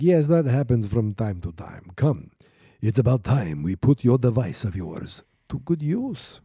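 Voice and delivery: lightly hammed vampire count, pausing before the last words; a mock vampire with dramatic pauses; Dracula. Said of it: "See, I did it again. I paused".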